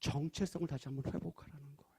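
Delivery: hushed, breathy whisper; whispered emphasis. Real, not acted. Pastor whispering the key point to listeners.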